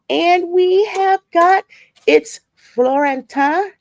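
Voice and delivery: high, drawn-out announcement; high, slow roll-call flourish; announcer-like greeting. Real, not acted. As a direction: stretch it out high and loud to announce a viewer. Announcing a viewer in the chat.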